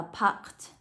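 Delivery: packed ending in a voiceless t; final T sound. Shown as a demonstration. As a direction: release a clear t at the end of packed. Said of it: "được đọc cho cô là âm T".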